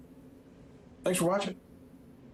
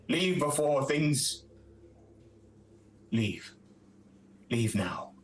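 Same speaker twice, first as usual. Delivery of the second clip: lightly voiced cold warning, slow; a hint of a mournful stranger telling intruders to leave; cloaked weeping woman. Woman in her lair warns the knight away, lightly voiced and slow.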